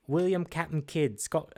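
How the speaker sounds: lightly attempted, bad Scottish accent; terrible Scottish accent. Trivia host naming the pirate, half-hearted Scottish accent. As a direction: try Scottish and fumble it. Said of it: "that's a terrible Scottish accent".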